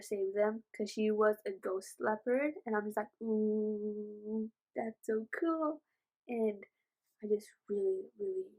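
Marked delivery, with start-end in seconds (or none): 3.2-5.8 impressed. Retold or imitated. Acting out impressed reaction.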